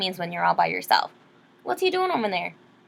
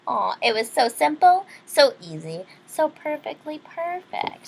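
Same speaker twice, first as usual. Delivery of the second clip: lively read-aloud storyteller; story narration. Acted. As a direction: read it like a bedtime picture book. Reads picture book aloud.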